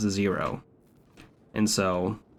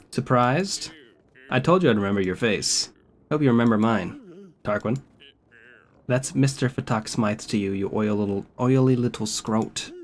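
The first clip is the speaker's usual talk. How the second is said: lightly voiced smug British thug; menacing British tough guy; British villain voice. Voices game character dialogue.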